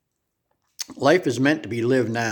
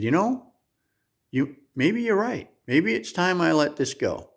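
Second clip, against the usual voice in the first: put-on old lady conceding; 4 semitones higher than usual. Old lady finally agreeing with the narrator, lightly voiced. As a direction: give in thoughtfully as the old lady. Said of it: "She said".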